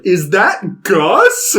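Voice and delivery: imitating surprised recognition. Friend spotting a familiar actor mid-movie, retold in surprise. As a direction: draw it out in amazed disbelief.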